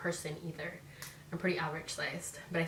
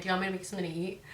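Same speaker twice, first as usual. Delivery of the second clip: sweet offer; much faster than usual. Retold or imitated. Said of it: "I'll be like".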